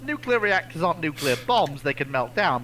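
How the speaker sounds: ordinary delivery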